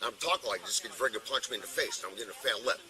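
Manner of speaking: low-key tipsy mumbling. Real, not acted. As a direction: talk like you've had too many, softly. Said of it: "talking like that because you're shithoused".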